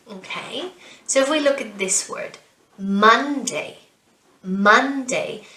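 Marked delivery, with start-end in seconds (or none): 2.8-5.4 "Monday" stressed MON-day, falling; first-syllable stress. Shown as a demonstration. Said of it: "we put the stress on the first syllable".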